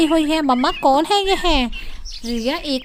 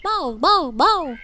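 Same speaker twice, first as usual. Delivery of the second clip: puppy barking. A narrator's reading. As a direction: yap like an excited puppy. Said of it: "जोर जोर से भौंकने लगता है". (पिल्ले का ज़ोर से भौंकना)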